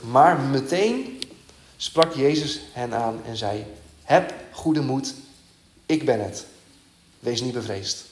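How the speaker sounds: slow, weighty reading of the comforting words; preacher reading Jesus calming the disciples, slow and solemn; solemn scripture reading. Acted. Slow, deliberate Bible reading.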